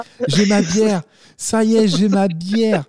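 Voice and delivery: high, loud smug mock boast; mocking beer drinker. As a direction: gloat like a proud Parisian. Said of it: "Oh, la tristesse".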